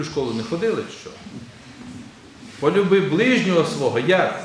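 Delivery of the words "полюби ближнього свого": louder, leaning on "ближнього"; stress on ближнього. Shown as a demonstration. Priest shows congregation the usual stress on ближнього. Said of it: "Але наголос на що ми робимо".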